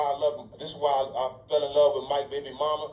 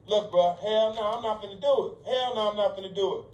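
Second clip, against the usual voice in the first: retold refusal, higher and insistent; adamant refusal; 4 semitones higher than usual. Telling him he won't do it, adamant. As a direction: dig in, replaying your own no. Retelling his own firm refusal.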